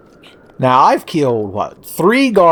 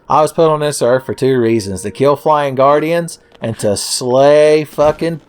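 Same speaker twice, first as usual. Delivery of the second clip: cool action hero; 4 semitones higher than usual. Pretend. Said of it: "I just thought I would sound cool".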